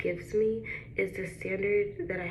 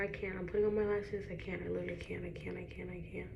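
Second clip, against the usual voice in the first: softer, fading out, tearful; holding back tears; 2 semitones lower, 6 dB quieter, faster than usual. Real, not acted. Overcome with emotion while putting on her lashes, fading. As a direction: let each one fade, overcome. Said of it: "I'm not gonna cry".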